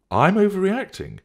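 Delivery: high, loud incredulous retort; affronted, voice leaping high; indignant disbelief. Acted. Indignant retort in acted quarrel.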